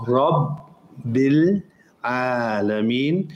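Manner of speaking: Rabbil Alameen with a full open ah on ra. Shown as a demonstration. Teacher showing students the correct ra in Rabbil Alameen. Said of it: "So you say ra".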